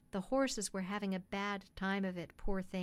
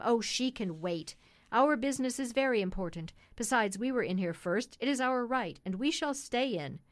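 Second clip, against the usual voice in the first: loud, self-important gentleman; mildly blustering, standing on his rights; insistent, dismissive; 5 dB louder than usual. Acted. Man refusing to give up the cab, loudly insistent.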